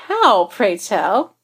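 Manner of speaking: slow and arch; drawn-out teasing challenge; mock formal challenge. Darcy's slow mock-formal question.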